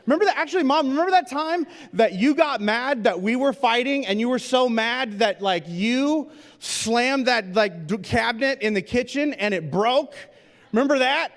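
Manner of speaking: put-on high, eager tattling kid voice; gleeful kid. Son reminding Mom in front of the photographer, gleeful tattling. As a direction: delight in spilling the family secret. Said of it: "they're like".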